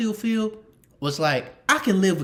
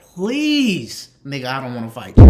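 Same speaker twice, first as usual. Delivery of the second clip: inner pleading; 3 semitones lower, 11 dB louder than usual. Retold or imitated. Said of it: "in the back of my head".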